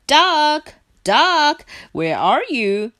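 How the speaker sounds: loud, high calling out; shouted. A narrator's reading. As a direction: call for a missing friend. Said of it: "shouted Hare".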